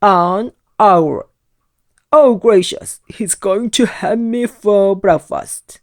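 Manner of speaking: loud, frantic wailing panic; terrified wail. A narrator's reading. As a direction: cry out sure you'll be eaten. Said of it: "he screamed".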